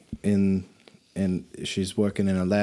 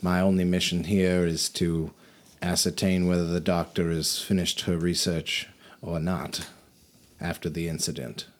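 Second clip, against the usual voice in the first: lightly voiced official; 2 semitones lower, 4 dB quieter than usual. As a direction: speak like a polite, quiet functionary.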